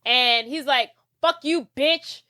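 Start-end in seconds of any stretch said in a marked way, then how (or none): 1.2-2.2 raised pitch, mock indignation; hammed-up telling-off, punched out; acted anger. Will telling off Gwen for lying, high indignant voice.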